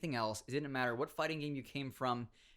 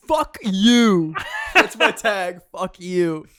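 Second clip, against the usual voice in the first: loud, high mock shout; 6 semitones higher, 15 dB louder, much slower than usual. Ben yelling at the tournament organizer, loud mock shout. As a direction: bark it out as the rude friend. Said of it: "And Ben goes".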